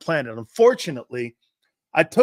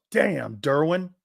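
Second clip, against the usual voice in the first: Jerome Brown; 2 semitones higher, slower than usual. Retold or imitated. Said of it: "and he goes".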